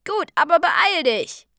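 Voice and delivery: high, loud hurrying shout; called out. A narrator's reading. Hero hurrying the orc along, loud high call. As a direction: yell back urgently. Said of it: "rief ich".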